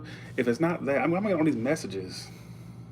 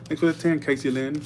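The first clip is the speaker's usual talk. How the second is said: higher, playful rhyme; sing-song rhyme; 4 semitones higher than usual. Shown as a demonstration. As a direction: lilt it to show off the rhyme. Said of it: "That rhymed, Kate".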